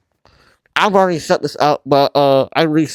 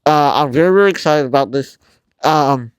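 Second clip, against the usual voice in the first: talking through a face mask; words dulled behind a mask; muffled through a mask. Real, not acted. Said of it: "I'm sorry if I sound muffled, because I am wearing a mask".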